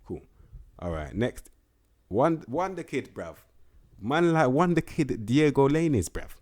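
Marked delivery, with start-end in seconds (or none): 2.1-6.3 slow, loud, high hype call; hype announcement. Real, not acted. Gamer hypes his new wonderkid to viewers, loud and drawn out.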